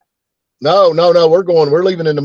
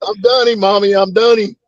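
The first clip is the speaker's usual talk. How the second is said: put-on child calling mommy; 5 semitones higher than usual. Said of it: "I was like".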